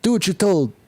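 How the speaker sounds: a hint of a cruel overseer; mock slave owner. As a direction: play a cruel overseer with a whip. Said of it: "All right".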